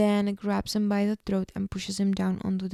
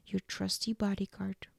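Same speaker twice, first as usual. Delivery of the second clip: whispered; 6 dB quieter than usual. Retold or imitated. Drunk Damon mocking himself.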